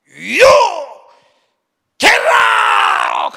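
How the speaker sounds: loud, high yell of get out; imitating a furious umpire tossing him; umpire's ejection shout. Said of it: "이렇게 말합니다".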